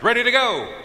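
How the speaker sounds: very high, loud drawn call; rallying shout. Retold or imitated. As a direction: call it out to fire up the room. Retold call in a shouted litany.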